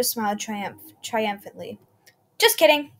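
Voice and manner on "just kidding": high, loud teasing jeer; mock cheerful villain gloat; mocking taunt. A narrator's reading. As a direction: taunt them playfully. Villain mocks after stabbing.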